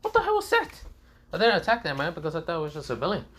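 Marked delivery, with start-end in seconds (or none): 0.0-0.7 high-pitched baffled question; confused. Acted. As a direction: ask it in startled confusion. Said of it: "Even Haku was confused".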